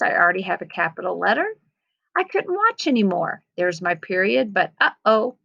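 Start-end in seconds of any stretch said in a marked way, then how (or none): 2.2-3.4 anxious. Acted. Reading the story with expression.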